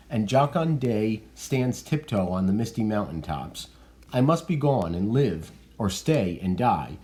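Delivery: lightly voiced Romeo, urgent to leave; reading Romeo. Teacher voices Romeo's reply.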